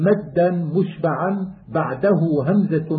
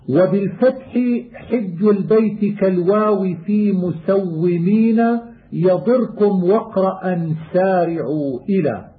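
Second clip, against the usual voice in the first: poem recitation; 3 semitones higher than usual. Acted. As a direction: recite the rhymed line like a student of qira'at. Chanted verse of the poem.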